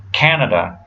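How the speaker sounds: "Canada" stressed on the first syllable, then two schwas; English "Canada", CAN-uh-duh; reduced vowels. Shown as a demonstration. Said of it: "second and third syllable have this uh".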